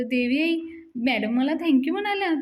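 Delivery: lightly voiced happy excitement. Raja tells the goddess about madam's thanks, mildly thrilled. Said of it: "राजा मात्र खुश होऊन जातो".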